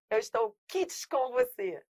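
"Eu estou kit com você" drawn out as a mocked mistake; slowly parade the wrong usage; mocking the error. Teacher mimicking common speakers' error, slow mild mockery. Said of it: "Muita gente fala assim".

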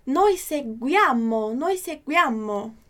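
slow, clear Italian drill; careful teacher pronunciation; slow model reading. Shown as a demonstration. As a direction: say it slowly twice for repetition. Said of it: "próximo é".

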